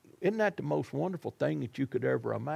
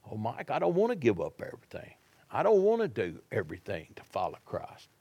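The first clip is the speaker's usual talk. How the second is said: whiny churchgoer. Retold or imitated. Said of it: "Folks, if you want to".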